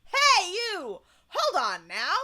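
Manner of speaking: loud, high call to stop someone. Acted. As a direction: hail them from across the room. Reading a character's shouted call.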